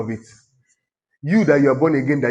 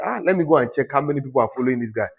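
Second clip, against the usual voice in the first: quick aside; faster than usual. Retold or imitated. Quotes own quick thought.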